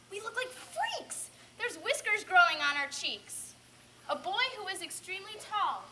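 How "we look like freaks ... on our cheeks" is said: drawn-out cry of dismay, then louder; theatrical alarmed shout. Acted. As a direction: shout in horror to the others. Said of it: "Another shouts".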